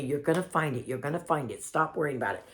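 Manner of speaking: soft imitation of a reassuring friend. Stranger comforting the panicked woman, softly reassuring. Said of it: "she kept reassuring me".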